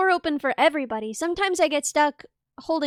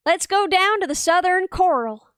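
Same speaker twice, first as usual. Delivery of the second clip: slow, careful try at Southern; attempted Southern accent; 2 semitones higher than usual. Shown as a demonstration. Taking the friend's test, slow attempted Southern accent. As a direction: stretch it out in an imitation Southern drawl. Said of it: "say this in the Southern accent".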